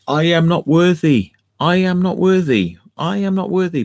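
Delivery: high, loud grovelling chant; bow down and cry it out like a mock worshipper. Mocking alien worshippers, loud grovelling wail.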